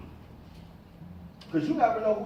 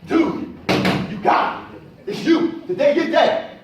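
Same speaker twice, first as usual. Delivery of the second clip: much higher, louder pumped-up self-talk; hype pep talk; 8 semitones higher, 9 dB louder than usual. Retold or imitated. Speaker shows how he pumps himself up in the mirror, loud and high. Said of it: "I'd be in the mirror going at it".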